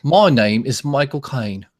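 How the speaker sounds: slow, rough Cockney impersonation; unhurried British film-star impression; Michael Caine. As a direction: draw out the London vowels. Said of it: "it's a ten out of a hundred".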